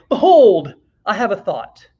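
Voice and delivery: a hammed-up biblical "Behold" to a friend; mock grand proclamation. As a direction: play-act an old-time prophet announcing a thought. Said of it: "I always wanna talk like this".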